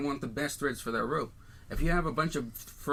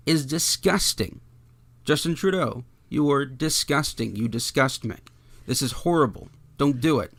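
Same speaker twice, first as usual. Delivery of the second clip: indignant outburst; 6 dB louder than usual. Real, not acted. Podcast host scolding Justin Trudeau directly, real loud indignation. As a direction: tell him off like you mean it. Condemning the PM's tweet.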